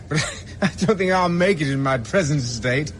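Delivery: half-hearted tipsy chuckle, playing it up; laughing off his state with a mock tipsy giggle; giggling tipsily. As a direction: laugh through the line as if a bit drunk. Feigning drunkenness, laughing it off.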